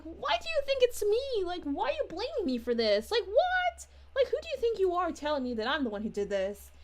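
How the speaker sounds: indignant mock yell that spikes high; imitating a yelling suspect. Suspect yelling at the detective during questioning, mock indignant shout. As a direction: play the accused suspect shouting back, half-acted. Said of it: "people kind of yelling at you".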